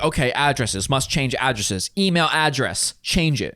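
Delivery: slow, dazed mock reasoning; dazed panicked reasoning. Sleepless wife piecing together the address change, slow and dazed. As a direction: plod through it like someone who hasn't slept. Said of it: "And you're like".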